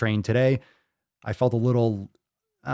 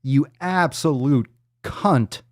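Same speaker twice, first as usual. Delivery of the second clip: mock outrage; 4 semitones higher, slower than usual. Mock outrage at burp score.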